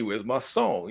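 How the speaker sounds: lightly acted demand for a song; confronting demand. Crew confronts the DJ over airplay, mock demanding. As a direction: crew rolling up on the radio DJ, lightly voiced demand. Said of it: "they roll up on like".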